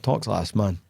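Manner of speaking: low Glaswegian voice in his head; inside Glaswegian accent. Shown as a demonstration. Coach showing co-host his inside accent, low broad Glaswegian. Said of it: "wonder what your inside accent".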